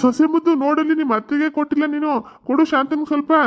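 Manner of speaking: high, loud fond scolding call. Acted. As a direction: call her over fondly but firmly. Father-in-law calls out, scolds playfully.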